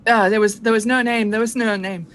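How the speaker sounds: lightly voiced frightened sailor, pressing; a touch of a haunted young pirate; shaken young gunner. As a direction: refuse like a scared deckhand.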